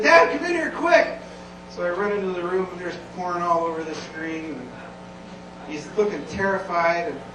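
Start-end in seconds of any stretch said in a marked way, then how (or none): 0.0-1.2 high, urgent mock yell; imitated kid's scream. Imitating nine-year-old son calling dad to the computer, screaming. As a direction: call out like a panicked child. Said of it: "I hear him screaming".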